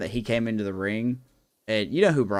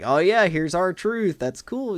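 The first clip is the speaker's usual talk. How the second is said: slow, higher mock cheer; mock casual excitement; 8 semitones higher, 3 dB louder, much slower than usual. Speaker retelling his own reaction at the match, slow mock cheer. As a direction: fake mild delight. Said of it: "I'm like".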